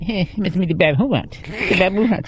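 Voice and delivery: lightly put-on host voice, repeating the punchline; a hint of whiny talk-show host; Leno. Host tossing the punchline to the band member, light impression. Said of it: "I need to work on my Leno".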